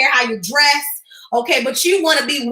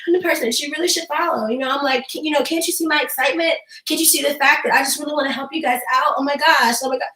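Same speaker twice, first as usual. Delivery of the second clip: unenthused livestreamer; faster than usual. Shown as a demonstration. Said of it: "but they talking like this".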